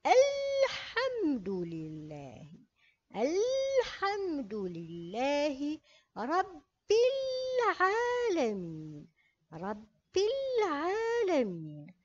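الحمد with a clear sounded lam, very slow; moon-letter lam. Shown as a demonstration. Teacher demonstrating to pupils, very slow. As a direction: stretch out الحمد لله رب العالمين. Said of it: "نقرأ".

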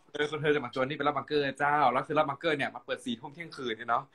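chatty kham mueang storytelling; Northern Thai gossip; Northern Thai dialect. Shown as a demonstration. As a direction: tell it in Chiang Mai dialect. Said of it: "แบบนี้เป็นต้น ภาษาเมืองนะเจ้า".

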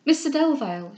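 mildly agitated exclamation; hurried cry. Acted. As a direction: call out his name in agitation. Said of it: "in a hurrying manner".

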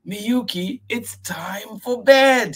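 high, loud grandfather voice calling her. Acted. Grandfather calling Miyuki to bed, firm. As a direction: call the little girl to bed. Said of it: "he says".

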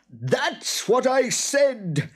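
high, loud, drawn-out creature shriek; indignant monster at the top of his voice; enraged boggart. A narrator's reading. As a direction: screech each claim slowly and furiously. Enraged boggart argues over land.

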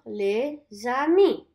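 "les amis" drawn out slowly; slow repeat-after-me; slow model. Shown as a demonstration. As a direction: stretch "les amis" for copying. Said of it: "Let's say it together".

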